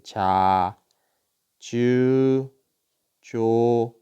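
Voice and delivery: 자, 주, 조 held long and even, ja, jyu, jo; syllable demonstration. Shown as a demonstration. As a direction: teach 자, 주, 조 one at a time with pauses. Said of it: "이렇게 발음하겠죠".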